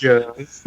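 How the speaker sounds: "Avengers" with a drawn Southern "juh" ending; Southern pronunciation. Retold or imitated. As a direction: say "Avengers" as "A-ven-juhs", dropping the r. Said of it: "J" is spelled with, like, a J U H".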